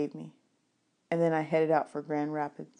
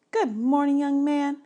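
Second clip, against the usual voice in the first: higher, bright librarian greeting; 8 semitones higher than usual. Acted. Librarian greeting the boy at her desk, in a higher lady's voice. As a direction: greet him as the cheerful librarian.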